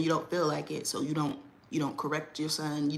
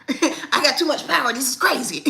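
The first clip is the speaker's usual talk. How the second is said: louder laughing boast; 8 semitones higher, 7 dB louder than usual. Real, not acted. Woman joking that kids obey her voice, laughing louder. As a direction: laugh through the words, tickled.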